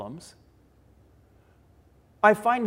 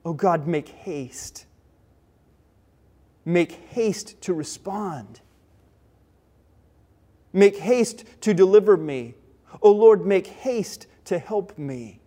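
slow, deliberate plea building louder; fervent prayer; 3 dB louder, slower than usual. Acted. David goes to God in prayer, urgent and fervent. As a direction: pray earnestly, each appeal firmer. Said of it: "Urgent, fervent prayer".

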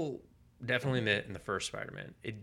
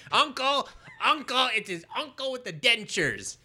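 much higher, louder silly voice; mock confused viewer; 13 semitones higher, 6 dB louder than usual. Imitating a confused viewer at the uncle scene, high and louder. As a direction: squawk it like a muddled fan. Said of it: "someone wasn't like".

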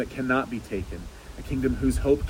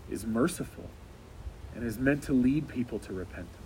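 earnest prayer. Acted. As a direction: lead the church in earnest prayer. Leads a closing prayer.

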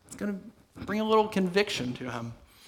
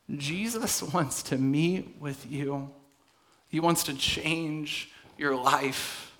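soft, earnest appeal; 2 semitones lower, 5 dB quieter, much slower than usual. Real, not acted. Quiet, slow altar-call appeal.

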